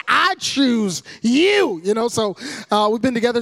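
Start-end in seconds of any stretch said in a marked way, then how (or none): 0.1-1.8 slow, drawn-out declaration; dramatic pronouncement. Retold or imitated. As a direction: declare it slowly, like a chosen destiny. Dramatised pronouncement to his future wife.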